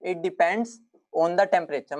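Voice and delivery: very slow, word by word; slow dictation. Shown as a demonstration. Teacher repeating the key rule slowly for notes. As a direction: spell it out slowly for students to copy. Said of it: "ध्यान से लिखना".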